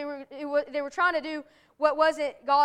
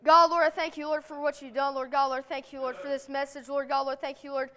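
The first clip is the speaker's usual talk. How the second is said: closing prayer. Real, not acted.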